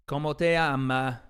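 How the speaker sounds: playful fake Spanish accent; a light, joking Spanish accent; put-on Spanish accent. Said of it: "I'm doing an accent".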